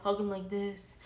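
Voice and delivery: softly mimicked stoned talk; imitating someone high. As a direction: lightly imitate a stoned coworker, voice dropped soft. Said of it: "You know, like, super high".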